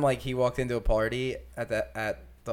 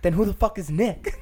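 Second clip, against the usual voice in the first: incredulous retold shout; 8 semitones higher, 5 dB louder than usual. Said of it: "I was like".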